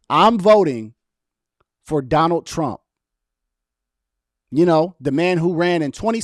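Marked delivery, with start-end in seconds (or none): 0.1-2.8 louder on request. Shown as a demonstration. Asked to say it louder, he declares his vote more loudly. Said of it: "you want me to say it louder?".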